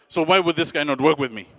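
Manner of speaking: acted, simmering indignation; still agitated. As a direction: ask forcefully, adrenaline slightly down. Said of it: "even though I'm still agitated".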